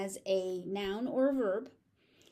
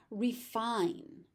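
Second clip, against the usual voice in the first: whisper; 3 dB quieter than usual. Shown as a demonstration. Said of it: "pronunciation drill".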